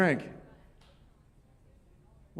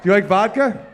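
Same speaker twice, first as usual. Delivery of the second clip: hype; 3 semitones higher, 7 dB louder than usual. Real, not acted. Hyping up crowd member for shots.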